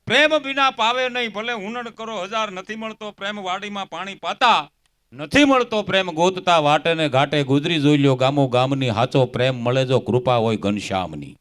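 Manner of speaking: recited doha with rising volume; verse recitation. Acted. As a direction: declaim the couplets like a folk singer on stage.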